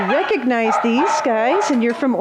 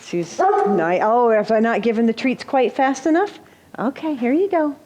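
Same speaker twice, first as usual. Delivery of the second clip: talking to a dog. Real, not acted. Feeding treats to the dog.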